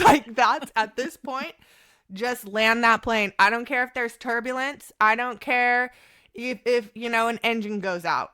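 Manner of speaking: loud, emphatic, half-laughing plea; fervent plea. Real, not acted. Mother pleading with her surgeon, loud and emphatic. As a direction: insist on it with urgency. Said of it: "pleading to land the plane".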